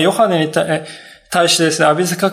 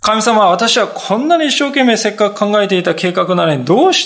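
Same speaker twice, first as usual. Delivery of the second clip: complaining prayer; 4 semitones higher than usual. Retold or imitated. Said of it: "って言うんですよね".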